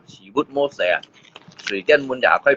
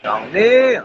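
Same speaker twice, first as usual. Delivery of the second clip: high, drawn-out call; pitched-up shout to get attention; 11 semitones higher, much slower than usual. Real, not acted. Calling out to someone.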